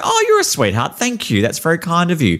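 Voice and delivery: high, sugary thank-you; mock sweet politeness. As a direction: gush at her like she's a darling. Overly sweet polite reply to waitress.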